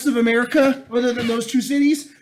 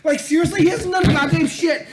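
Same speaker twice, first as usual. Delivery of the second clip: higher-pitched, incredulous outburst; exasperated rant; 4 semitones higher than usual. Acted. Telling scared people to shut up, exasperated. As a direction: tell them off in disbelief.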